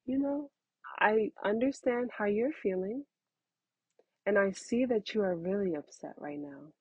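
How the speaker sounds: put-on calm a child down tenderly; a mother soothing her upset older child; gentle parent voice. Shown as a demonstration. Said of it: "You might wanna just say".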